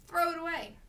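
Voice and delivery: high, loud command falling away; firm order. A narrator's reading. Mother rejects her son's cricket, firm order.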